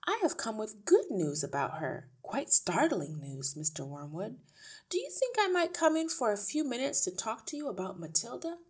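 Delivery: lightly voiced eager teacher; polite teacher. A narrator's reading. Miss Honey asks to come in, politely eager.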